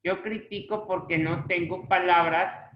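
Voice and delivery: "critico" as cri-TI-co; stress on the middle syllable. Shown as a demonstration. Teacher showing the form without accent, "critico" stressed on TI. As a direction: keep the weight on TI in "critico". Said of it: "porque no le estoy poniendo acento".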